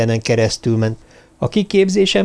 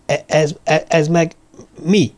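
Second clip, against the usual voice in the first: halting, higher-pitched bewilderment; startled stammer; 4 semitones higher than usual. Acted. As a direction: stumble over the first words in alarm. Startled man stammers at stuck hand. (riadt, akadozó dadogás)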